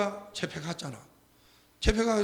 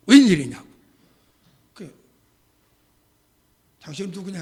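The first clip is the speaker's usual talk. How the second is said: demanding shout; 12 dB louder than usual. Retold or imitated. Officer rushing over demanding.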